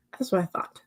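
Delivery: whispered under the breath; soft whisper. Real, not acted. Streamer whispering back to the chat, soft whisper. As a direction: breathe it half to yourself.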